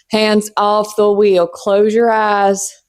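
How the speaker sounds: slow, drawn-out calm instructions; mock guided calm. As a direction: ease them in like a ride announcer. Mock guided intro, slowed.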